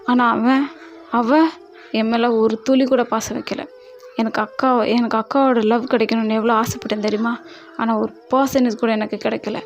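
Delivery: loud, bitter and pained; angry loud outburst. Acted. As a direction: pour out the old grievance loudly. Angry outburst about sister. (கசப்புடன் உரத்த கோபம்)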